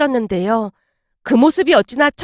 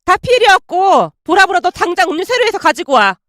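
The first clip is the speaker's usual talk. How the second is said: higher, imperious command; bossy bully; 6 semitones higher, 3 dB louder than usual. A narrator's reading. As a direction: dismiss and order them off. Bully friend orders her about.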